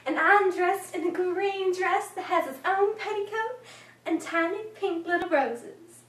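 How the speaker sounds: lightly voiced young storyteller, lively and self-assured; a touch of childlike pride, building on the big words; proud little girl narrator. Six-year-old telling of her Easter speech, lightly proud.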